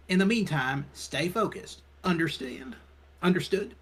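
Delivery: a hint of a weary boss laying down orders; stern police chief, lightly voiced. Chief telling the detective to stay focused, firm.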